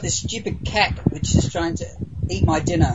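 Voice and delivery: talking round a mouthful; eating while talking; mouth full. Real, not acted. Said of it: "shoving food into my mouth".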